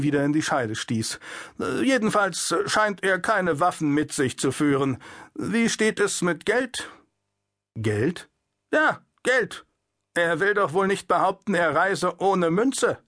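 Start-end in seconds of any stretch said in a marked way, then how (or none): 1.6-13.0 pushy guard questioning. Acted. The guard presses the puppeteer about his money. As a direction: lean on him for money.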